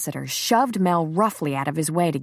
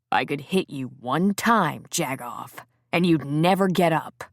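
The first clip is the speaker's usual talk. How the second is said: low snarl; 2 semitones lower than usual. Acted. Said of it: "Preacher snarled into the man's face".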